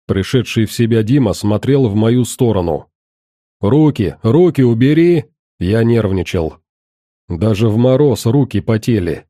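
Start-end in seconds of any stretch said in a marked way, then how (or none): 3.6-5.2 nervous shout. Acted. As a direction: bark it nervously at gunpoint. Ordering at gunpoint.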